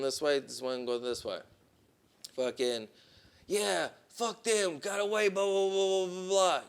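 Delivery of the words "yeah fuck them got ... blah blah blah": high-pitched put-on Haitian accent; Haitian-accented bluster running into babble; mock Haitian accent. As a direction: imitate the Haitian driver, high and dismissive. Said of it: "his accent".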